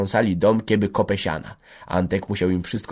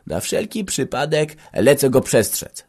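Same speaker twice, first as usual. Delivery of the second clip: higher-pitched, hurried-off call; 6 semitones higher than usual. A narrator's reading. Grzela setting off to warn Rocho, calling out. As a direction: call it out as you leave. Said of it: "zawołał Grzela".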